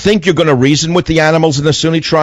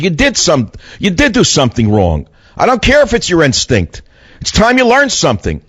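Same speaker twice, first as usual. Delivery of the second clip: higher-pitched, mildly scolding a naughty dog; mock angry scolding; 5 semitones higher than usual. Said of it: "I got mad at him this time".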